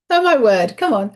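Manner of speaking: loud, laughing "Oh, my word"; laughing exclamation. Real, not acted. Delighted when the card turns up, laughing loudly. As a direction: burst out laughing in surprise.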